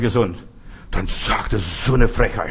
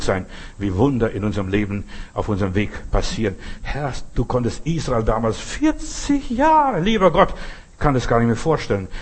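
closing prayer. Acted. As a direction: pray on behalf of the congregation. (feierliches Gebet des Pastors)

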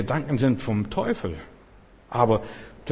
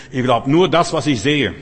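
mocking loud quote; 7 dB louder than usual. Preacher voices atheists' objection.

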